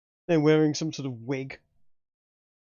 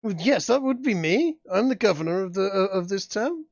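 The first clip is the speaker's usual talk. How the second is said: lightly voiced shaken governor, a touch higher; stammering official, still rattled by the attack; flustered governor; 7 semitones higher, 4 dB louder than usual.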